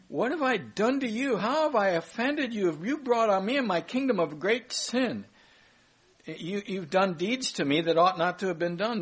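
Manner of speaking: lightly voiced wronged king; upset Abimelech. Abimelech rebukes Abraham.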